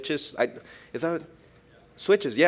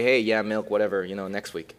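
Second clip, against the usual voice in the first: lazy, shrugging and fading away; tossed off as if nobody cared; mock indifference; 3 semitones lower than usual. Preacher imagining babies not caring about milk, mock shrug. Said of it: "or do they just say".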